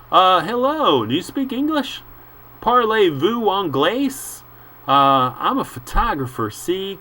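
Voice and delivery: high, loud pushy little reporter; a small man badgering a foreigner, pitched high; squeaky photographer. Photographer hassling the boatman: high, squeaky and pushy. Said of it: "growing squeakier and fainter".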